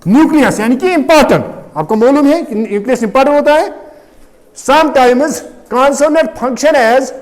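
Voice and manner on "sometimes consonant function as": slow, spaced-out dictation. Real, not acted. Teacher repeating the definition for students writing, slow dictation. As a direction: give each phrase slowly, then wait.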